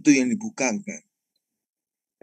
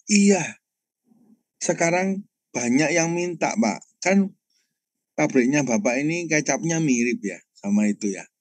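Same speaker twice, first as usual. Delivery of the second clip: higher, lightly voiced caller; driver on the phone; 5 semitones higher than usual. Driver says many want the pastor's soy sauce, higher voice. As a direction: play the driver, eager and higher. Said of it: "itu supirnya supplier".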